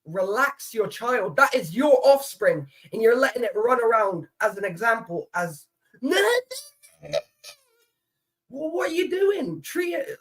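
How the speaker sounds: high rising mock rant at parents; high, half-joking lecture to a parent; mock telling-off. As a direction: scold a careless parent, climbing high. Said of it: "I'm like".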